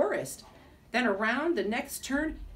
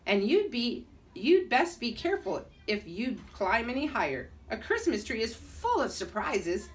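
put-on Russian accent. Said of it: "spoke in a Russian accent".

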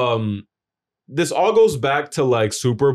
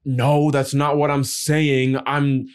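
put-on slow cranky old lady; 3 semitones higher, slower than usual. Imitating the cranky resident.

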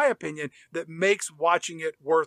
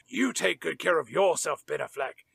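Brian; 3 semitones lower than usual. Retold or imitated. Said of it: "Then Brian leans in and kisses".

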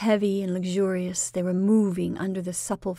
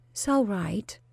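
short, curt reply. Acted. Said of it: "said Bernice shortly".

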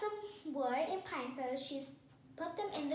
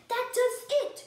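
loud, high burst of exasperation; fed-up storybook outburst; angry shout; 10 semitones higher, 10 dB louder than usual. A narrator's reading. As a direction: shout that you've had enough. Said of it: "shouted Mister Rogers".

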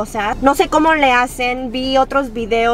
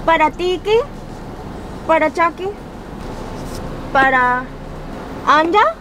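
higher pitched gibberish; fake foreign language; 5 semitones higher than usual. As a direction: order in a made-up tongue. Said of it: "actuar como si no entiendo".

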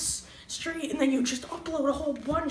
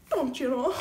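put-on Minnesota accent; 3 semitones higher, 4 dB louder than usual. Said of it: "Gonna be my transition the whole video".

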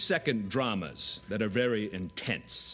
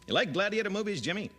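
Peter Graves; 7 semitones higher, faster than usual. Retold or imitated. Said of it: "Peter Graves".

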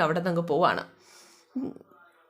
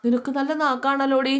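sarcastic jab; 6 semitones higher than usual. Acted. Husband scolds wife's sharp tongue.

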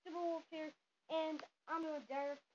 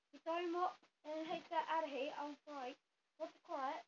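amateur put-on British accent; American badly faking a British accent; hammed-up mock British voice. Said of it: "told me to do a British accent".

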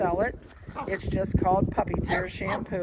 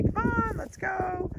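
much higher sing-song call; baby talk; 12 semitones higher, slower than usual. Shown as a demonstration. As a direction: coax the puppy to follow. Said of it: "do the baby talk thing".

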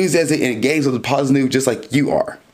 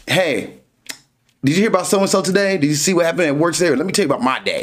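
changing the subject; 3 semitones higher, faster than usual. Acted. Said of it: "they're like".

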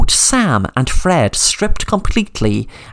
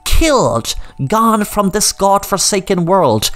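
higher, sing-song villain taunting his captives; gloating villain; 4 semitones higher than usual. Acted. Brian gloats to Sam, mildly menacing. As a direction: savour every word of the trap.

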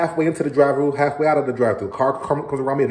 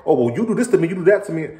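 higher, louder, imitating the wife snapping back; defensive comeback; 7 semitones higher, 4 dB louder, faster than usual. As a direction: throw it right back at him, defensive. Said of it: "And then she comes back".

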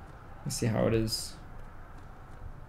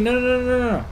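despairing yell; 10 semitones higher, 4 dB louder, faster than usual. Real, not acted. Teammates leaving the match.

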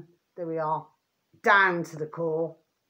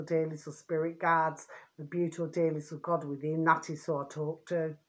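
tender; 7 dB quieter than usual. Real, not acted. Tender talk of loved ones in spirit.

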